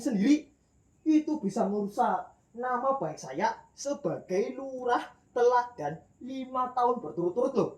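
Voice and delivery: calm the mob with self-important authority; village head calming. Acted. Village head telling the mob to calm down, lightly voiced bossy official. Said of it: "datanglah seorang Pak Lurah".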